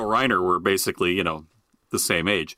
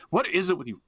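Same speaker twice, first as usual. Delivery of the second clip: exasperated protest; 9 semitones higher than usual. Retold or imitated. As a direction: whine in bafflement at hostile dogs. Retelling exasperated complaint to barking dogs.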